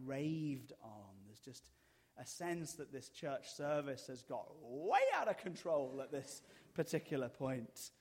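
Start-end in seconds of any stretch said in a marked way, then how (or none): 2.2-7.9 Kramer. Retold or imitated. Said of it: "That's Kramer from Seinfeld".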